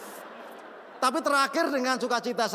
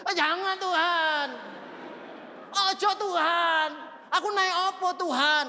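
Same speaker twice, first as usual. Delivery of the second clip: mock whining; 6 semitones higher than usual. Whiny refusal to God, acted.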